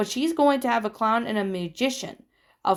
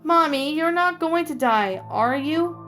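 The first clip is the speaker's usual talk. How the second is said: put-on high, louder child pleading; frightened little girl; 7 semitones higher, 3 dB louder than usual. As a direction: ask Mommy in rising panic. Scared little girl asks mother.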